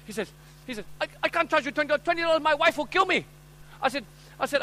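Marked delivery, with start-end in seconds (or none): 1.0-3.3 high-pitched haggling protest; hammed-up alarmed seller; pleading shopkeeper. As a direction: plead poverty to a hard customer. Acted shopkeeper pleads while haggling.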